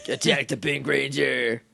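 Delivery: flat hypnotized drone, lightly voiced; a hint of a hypnotized evil Ranger; brainwashed monotone. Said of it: "evil hypnotized voices where they're like".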